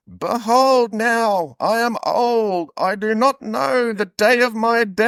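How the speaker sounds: put-on high, very slow old Scottish man; a frail Scottish elder, dragging every word. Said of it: "you're nailing the Scottish accent".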